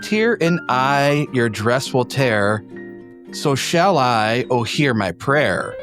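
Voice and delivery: reciting a poem aloud; poem reading. Acted. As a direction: read the verse with a lilt.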